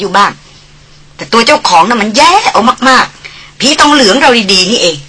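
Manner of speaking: lightly voiced haughty young lady scolding; mock him with a sneer, slowing the jibes; Darin teasing. (ดารินพูดเหน็บแนมแบบคุณหญิงถือตัว)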